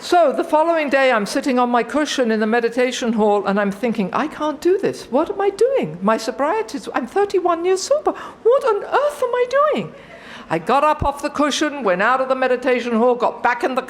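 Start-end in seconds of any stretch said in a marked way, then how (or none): 4.1-6.9 inner panic. Retold or imitated. Panicked inner thoughts on cushion. 7.0-9.9 a frantic inner cry, voice shooting up; panicked self-talk ending high and fast; rising panic. Retold or imitated. Panicked inner thoughts on cushion.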